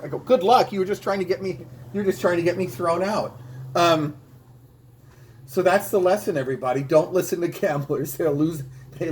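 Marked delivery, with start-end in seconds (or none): 0.2-3.4 indignant retort. Retold or imitated. Angry retort to gambler.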